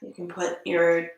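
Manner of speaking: measured cues, long silences between phrases; unhurried yoga teacher settling the class; guided meditation. Acted.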